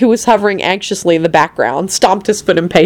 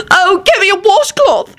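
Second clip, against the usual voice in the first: high, drawn-out exasperated yell; 14 semitones higher than usual. A narrator's reading. Elizabeth tending Lupin wants a washcloth, yelling. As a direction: call out high, stretching the words. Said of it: "Elizabeth yelled".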